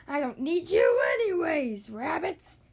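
roared. Acted. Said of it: "he roared".

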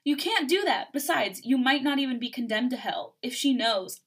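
emphatic objection in a lifted voice; urgent protest. Acted. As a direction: argue hard to stop them going. Mark protests in acted quarrel.

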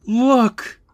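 high, loud, drawn-out exclamation; acted alarmed cry. A narrator's reading. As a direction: cry it out to show them something shocking. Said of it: "He just tells them".

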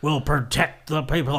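slow, lightly voiced heroic narration; a hint of a grand movie voiceover; mock-solemn hero monologue; Optimus voiceover. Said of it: "He kinda has his, like, over V O".

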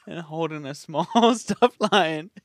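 second take cracking up; laughing through it. Shown as a demonstration. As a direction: try the line, keep breaking. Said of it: "Do it again".

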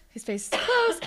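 squeaky high repeat. Retold or imitated. Watching a creepy scene, squeaky high mock alarm. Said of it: "same line said again".

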